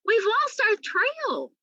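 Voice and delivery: high, slow call across the snow; high drawn-out shout. A narrator's reading. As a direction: call out the bad news from a distance. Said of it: "Sophia called out".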